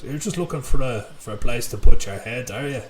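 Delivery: lightly voiced Irish friend on the phone; a hint of an impression of an Irish caller; Jay Murphy. Friend phoning about the advert, lightly imitated. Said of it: "You won't appreciate that impression".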